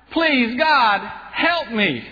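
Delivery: high-pitched, hammed-up plea to God; mock cry for help. Atheist about to be eaten begs God, mock cry for help. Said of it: "he cried out".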